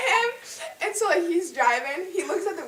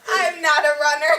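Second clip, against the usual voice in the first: laughing; 2 semitones higher, 6 dB louder than usual. Real, not acted. Laughing at own confession.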